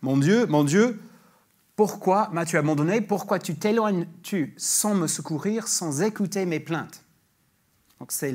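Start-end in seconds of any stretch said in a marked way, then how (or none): 0.0-7.0 louder, declaimed psalm lines; ringing psalm reading; psalm read aloud. Acted. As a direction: proclaim the psalm out. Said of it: "qui lit".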